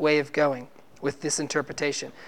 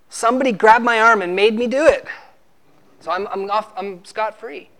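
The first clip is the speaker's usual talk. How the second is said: mock excuse; 3 semitones higher, 4 dB louder than usual. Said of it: "you try to justify your sin".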